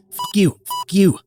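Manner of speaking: restrained imitation of an attacker's shouting; retold repeated yell. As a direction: hit each one up and hard like a quoted shout. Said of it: "calls out repeatedly".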